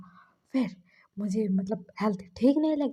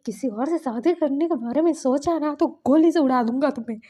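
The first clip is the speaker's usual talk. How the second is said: louder, a mock-serious threat; threatening; 3 semitones higher, 6 dB louder than usual. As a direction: warn him off like a jealous husband. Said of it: "मतलब धमकी दे रहा था". (जलन भरी धमकी, तेज़ आवाज़ में)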